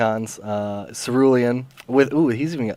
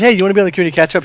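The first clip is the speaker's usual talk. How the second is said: excited; 7 semitones higher, 5 dB louder, much faster than usual. Retold or imitated. Retold invite to coworker.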